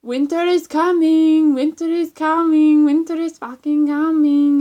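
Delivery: hammed-up bellow, stretching every repeat; retold shouted impression. Vlogger imitating a kid's impression, full-volume hammed-up shouting. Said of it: "The kid's just there going".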